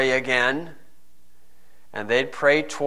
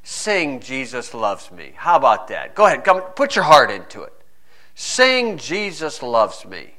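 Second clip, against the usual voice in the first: mocking soldier. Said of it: "the soldier comes".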